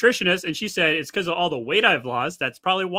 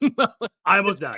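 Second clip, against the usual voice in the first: laughing; 2 semitones higher, 3 dB louder, much slower than usual. Real, not acted.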